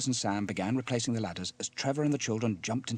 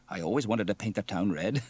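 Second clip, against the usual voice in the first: light joke ending in a chuckle; chuckling. Acted. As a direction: quip with a little laugh at the end. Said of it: "chuckled Sam".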